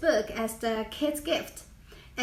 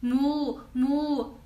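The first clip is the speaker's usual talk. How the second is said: drawn-out lowing moo moo; Swedish cow moo. Shown as a demonstration. Showing viewers the Swedish cow sound, lowing.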